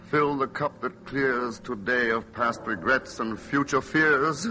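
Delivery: slow dreamy verse recital; delirious recital. Acted. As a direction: recite like a fevered poet. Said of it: "he is delirious".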